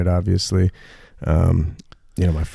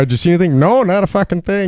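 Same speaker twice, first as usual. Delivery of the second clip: higher, playful voicing of two hunters; mock hunter exchange; 10 semitones higher, 3 dB louder than usual. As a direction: act out a bored hunter's dry reply, lightly. Mock hunting-buddy exchange.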